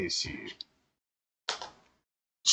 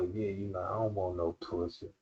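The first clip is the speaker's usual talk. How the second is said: much lower, softer denial; fake denial; 9 semitones lower, 13 dB quieter than usual. A man pretending not to want her, low. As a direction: murmur it low, faking. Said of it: "she got you thinking like".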